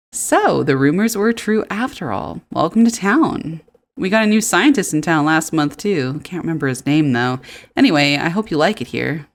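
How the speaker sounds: lightly voiced, welcoming local; chatty townsperson. Local greeting the new farmer, lightly put-on voice.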